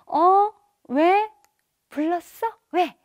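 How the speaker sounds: put-on high, bright-eyed answer to a child; loud, lifted, welcoming questions; attentive parent. Shown as a demonstration. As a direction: respond eagerly to your child's call.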